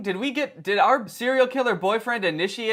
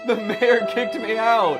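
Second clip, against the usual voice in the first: whiny, higher, louder third grader voice, slowing at the end; mock sobbing kid; 5 semitones higher, 4 dB louder than usual. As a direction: imitate a kid crying as he leaves town. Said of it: "a third grader packing up his bag sobbing".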